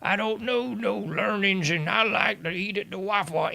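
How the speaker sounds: Hillary Clinton redneck voice. Retold or imitated. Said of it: "trying to do her redneck voice".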